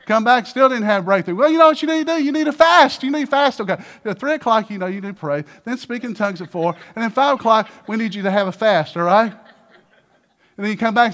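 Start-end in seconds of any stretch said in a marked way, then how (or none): 1.4-9.3 high, loud bossy advice; mock preachy shout. Church adviser ordering a fast, loud mock bossiness. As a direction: hammer out the schedule.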